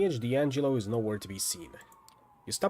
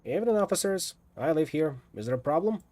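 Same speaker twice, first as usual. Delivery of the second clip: higher, polite innocent tenant act; 4 semitones higher than usual. Pretend. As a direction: sell the harmless neighbour. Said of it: "Pretend I'm one of the cops".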